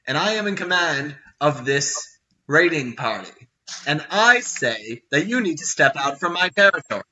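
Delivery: emphatic, commanding orc chief; booming female voice. Acted. Orc chief orders a trespasser out, booming female voice. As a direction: lay down the order with authority. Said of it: "booming female voice from before say".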